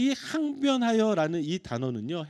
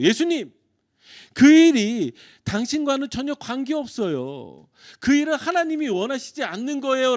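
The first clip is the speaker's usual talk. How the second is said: Peter scolding Jesus, higher and louder; Peter rebuking; 6 semitones higher, 7 dB louder than usual. Acted. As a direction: lecture the Lord like a disciple who thinks he knows better. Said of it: "베드로가 이렇게 꾸짖는 거예요".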